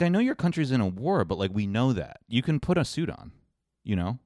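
high, exasperated plea; mock pleading. Mocking Zelensky, pleading.

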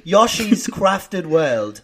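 slow, careful mock British pronunciation; lightly faked British accent, drawn out; attempted British accent. Shown as a demonstration. American co-host trying the game title, slow British accent. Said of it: "I don't know how to say Yoshi in".

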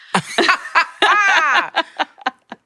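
big, high, loud burst of laughter; real laugh. Real, not acted. Guest recalling the interpreter's joke, bursting into loud laughter.

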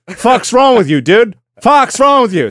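high-pitched indignant yell; mock outraged manager. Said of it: "A singer's manager is just like".

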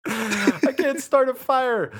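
high, slow dude voice; drawn-out clueless bro; frat bro. Pretend. Bro bit continues.

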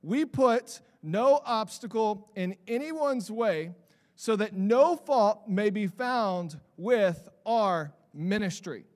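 slow, measured reading of the verse; slow scripture recital. Shown as a demonstration. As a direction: read the passage out deliberately before preaching on it. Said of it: "he says this".

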